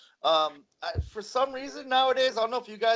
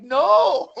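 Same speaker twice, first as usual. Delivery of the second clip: laughing no; 9 semitones higher, 12 dB louder than usual. Retold or imitated. Answering dad about fan dinners.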